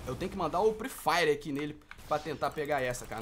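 normal talking voice

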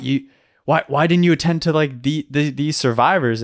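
mildly incredulous retold reprimand; imitated instructor challenge. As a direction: question them like a baffled examiner. Acted instructors challenging failed students.

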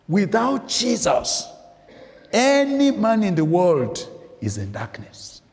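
full-voiced pulpit declaration; emphatic preaching. Real, not acted. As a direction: drive it home to the congregation. Preacher hammers home his point.

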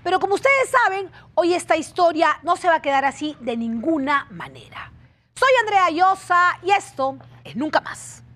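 emphatic, dramatic show opening; TV presenter intro. Real, not acted. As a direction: present the case to viewers with punch. Presentadora abre el programa. (presentadora de televisión, tono enfático)

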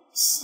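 so held long and steady; long open syllable. Shown as a demonstration. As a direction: draw out the vowel in so. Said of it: "长音阶开口".

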